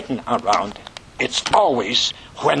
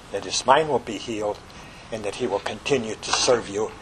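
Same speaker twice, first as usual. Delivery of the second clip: pastoral prayer. Acted. Pastor praying for David and Rachel, earnest and steady. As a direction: pray it, humble and steady.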